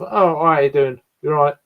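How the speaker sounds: relaxed common East London-Essex greeting; own common accent. Shown as a demonstration. Showing which accent is his, common East London-Essex accent. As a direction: toss it off in a working man's English accent. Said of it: "I'm more of a kind of".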